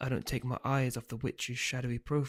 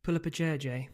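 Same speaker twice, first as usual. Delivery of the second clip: calling out; 3 semitones higher than usual. Acted. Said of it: "Mum calls".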